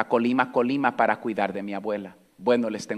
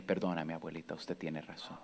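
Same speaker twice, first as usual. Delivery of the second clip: hushed apology; 6 semitones lower, 14 dB quieter than usual. Retold or imitated. Boy apologizing to grandma.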